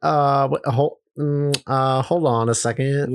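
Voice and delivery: stall, unsure what you see; hesitant producer. Retold or imitated. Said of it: "they're like".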